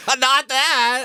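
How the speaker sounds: high, offended retort; offended woman. Retold or imitated. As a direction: snap back, offended. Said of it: "she goes".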